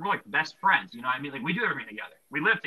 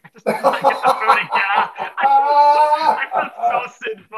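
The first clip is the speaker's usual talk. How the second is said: laughing through the words, loud and high; 11 semitones higher, 13 dB louder than usual. Retold or imitated. Retelling his impatience to friends, laughing loudly. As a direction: laugh it out, half embarrassed. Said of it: "I'm like".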